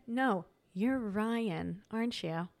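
very slow, drawn-out accusing question; pointed challenge. Retold or imitated. Confronting the doctor she thinks is her ex, slow and pointed. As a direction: drag it out, daring him to deny it.

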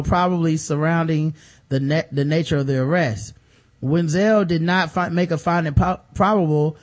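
reading an article aloud; news reading. Acted. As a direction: read it like a news report.

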